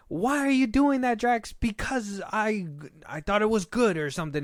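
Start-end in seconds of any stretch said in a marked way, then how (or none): 0.1-1.5 high, loud mock yell; yelling a dumb gag line to mock it; mocking Marvel yelling. Mocking the movie's bickering with a high, loud mock yell. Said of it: "talking like this and going back and forth". 1.5-4.0 high, slow, put-on dopey voice; dumb reply. Answering the mock yell in a high, slow dopey voice. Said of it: "talking like this and going back and forth".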